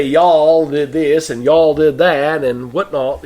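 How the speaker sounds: a light, slowed Southern drawl from a Boston native; mock Southern accent, understated and slow. Shown as a demonstration. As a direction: lean gently into a Southern accent, drawling the y'all. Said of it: "you would think I was from the South".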